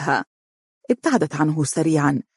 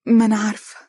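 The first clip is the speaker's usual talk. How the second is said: higher, coy little admission; smiling; 5 semitones higher, 3 dB louder, much faster than usual. A narrator's reading. Girl admitting she knows he loves her, smiling. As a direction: answer with a pleased smile. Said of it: "ابتسمت وهي تقول".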